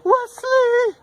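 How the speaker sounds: high, loud shriek of his name; panicked scream. Acted. Buttercup screaming for Wesley, loud and high panic.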